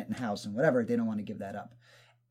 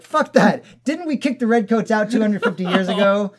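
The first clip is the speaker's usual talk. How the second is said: higher, louder mock patriotic bro; dumbed-down patriot bro; 8 semitones higher, 8 dB louder than usual. To friend, mocking the British guy as a dumb bro, hammed-up. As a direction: ham up a dumb flag-waving bro. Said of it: "totally dumbing myself down the way I spoke".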